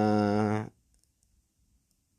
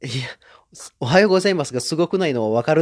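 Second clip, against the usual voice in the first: fast, louder annoyed retort; fast, louder mildly annoyed comeback; mock irritation; 3 semitones higher, 4 dB louder, faster than usual. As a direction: brush off the praise, fast and irritated. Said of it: "逆にイラつく".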